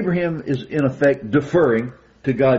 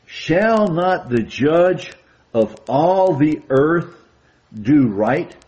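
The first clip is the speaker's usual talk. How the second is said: slow, weighty, louder quote; solemn emphatic reading; 3 semitones higher, 3 dB louder, much slower than usual. Shown as a demonstration. Preacher stressing key verse for the brethren, solemn and slow. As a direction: lean on each phrase like a proclamation. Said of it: "Notice what it says".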